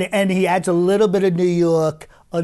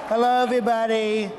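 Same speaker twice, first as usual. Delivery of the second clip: higher, showman greeting as Trump; Trump impression; 5 semitones higher, faster than usual. Greeting a corporate gala crowd, a showman Trump voice.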